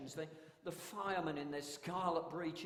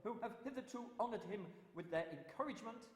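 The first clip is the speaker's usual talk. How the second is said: town crier. Shown as a demonstration. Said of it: "I do have another cry".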